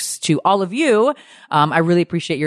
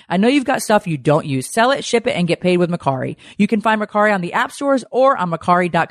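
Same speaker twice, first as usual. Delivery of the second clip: upbeat sponsor read to camera; 4 semitones higher than usual. Acted. Host pitching an app to her viewers, ad read. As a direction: sell the app like a host reading an ad.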